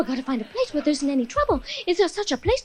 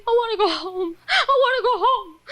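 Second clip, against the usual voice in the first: mock whine; 5 semitones higher than usual. Whining mock crying.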